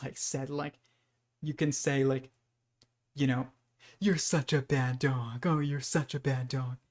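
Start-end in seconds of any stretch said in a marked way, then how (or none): 4.0-6.8 happy tone. Retold or imitated. Owner teases her dog, sweetly cooing mean words. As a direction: coo "bad dog" like a compliment. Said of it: "in the happiest tone".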